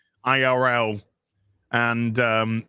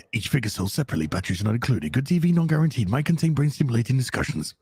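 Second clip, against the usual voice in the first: TV voice. Acted. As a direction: read it like a TV promo. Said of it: "I'm dying to do my T V voice".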